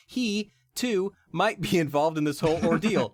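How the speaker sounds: loud, high dramatic reveal; dramatic narration. Acted. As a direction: build it up like a trailer.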